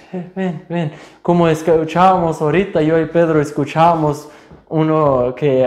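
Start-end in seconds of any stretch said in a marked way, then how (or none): 0.1-0.9 softer, quiet beckoning; God's gentle call. Retold or imitated. God calling the fallen believer back, soft. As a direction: lightly call them back. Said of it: "Pero ahí dice".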